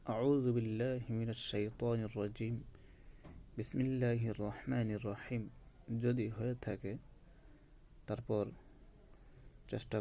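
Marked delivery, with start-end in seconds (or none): 0.1-5.5 আউযু বিল্লাহি মিনাশ শাইতানির রাজিম said slowly and carefully; measured recitation. Shown as a demonstration. Teacher modelling the phrase for students, slow and careful. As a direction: spell out the Arabic phrase slowly. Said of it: "আমাদের".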